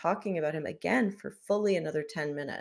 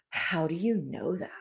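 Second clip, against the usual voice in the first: whispered, imitating stunned disbelief; hushed mock amazement. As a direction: mimic someone too astonished to use full voice. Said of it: "be stunned and be like".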